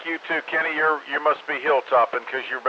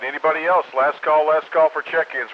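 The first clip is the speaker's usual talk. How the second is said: louder last call; 4 semitones higher, 4 dB louder than usual. Real, not acted. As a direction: call it out over the air. Net controller's final call.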